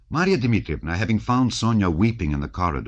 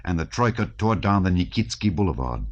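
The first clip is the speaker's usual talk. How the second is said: plain reading voice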